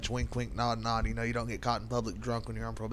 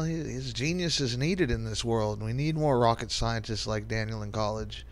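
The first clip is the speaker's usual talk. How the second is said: dry mock praise, slowly; sarcastic; 2 semitones lower than usual. Real, not acted. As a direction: sneer through fake admiration. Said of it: "Note my sarcasm".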